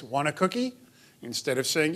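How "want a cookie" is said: put-on child parroting the question, rising at the end; exact echo. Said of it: "in the exact same voice".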